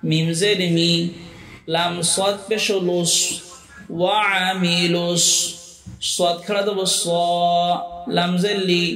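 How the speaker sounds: slow, measured chant with long-held vowels; Qaida spelling recitation. Shown as a demonstration. Teacher models Qaida words for learners, slow measured recitation. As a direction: spell out letter by letter, then draw out the joined word.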